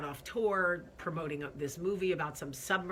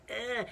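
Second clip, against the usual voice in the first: higher queasy "ugh"; disgusted groan; 5 semitones higher than usual. Real, not acted. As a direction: groan out the stress. Stomach in knots over election.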